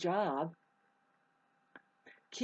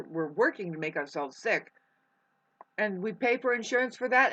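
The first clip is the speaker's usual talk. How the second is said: fed-up outburst; 3 semitones higher than usual. Retold or imitated. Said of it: "Drop it all and just say".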